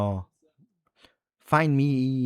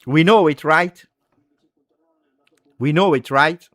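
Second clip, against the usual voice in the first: agitated insistence; 5 semitones higher, 5 dB louder than usual. Real, not acted. Fan insisting on doom.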